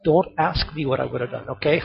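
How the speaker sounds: ordinary delivery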